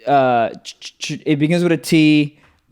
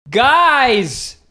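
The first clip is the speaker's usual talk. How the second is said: unconfident; 5 semitones higher, much slower than usual. Real, not acted. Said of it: "You didn't sound very confident on that".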